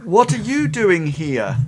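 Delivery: put-on puzzled old man questioning his daughter; old man's surprise. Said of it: "The, the old man goes".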